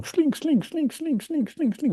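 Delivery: very high, sing-song swooping syllables; cartoonish high bouncing noise; yo-yo sound effect. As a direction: swing the pitch up and down like a yo-yo. Imitating emotional ups and downs.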